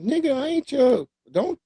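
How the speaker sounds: high, pushy put-on African accent; mock African accent. Friend imitating African hustlers pushing goods, mock African accent. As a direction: shoo someone off in an imitation accent.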